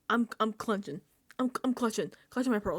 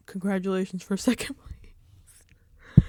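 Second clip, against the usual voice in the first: mock consolation; 3 dB louder, slower than usual. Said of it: "She's like".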